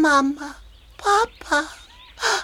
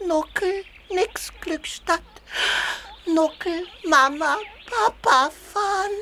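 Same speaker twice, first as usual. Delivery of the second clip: tearful. Acted. Baby elephant refuses to leave.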